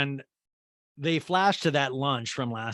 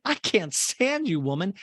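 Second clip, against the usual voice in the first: mock exasperation; 7 semitones higher than usual. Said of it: "Sheree's like".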